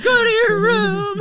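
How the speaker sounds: high, drawn-out, very loud order; mock babysitter's shout through laughter; retold yell. Babysitter sending an unruly kid upstairs, yelled. Babysitter retelling yelling at a boy.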